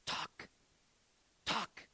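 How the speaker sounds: broken Slovak English, rising to a call; imitating an old Slovak man urging him on; Slovak accent. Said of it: "That's how he would say it".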